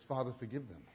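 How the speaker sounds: quiet tender prayer from the cross; soft prayer. Acted. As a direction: breathe it quietly like a dying man's plea. Preacher quotes Jesus' prayer softly.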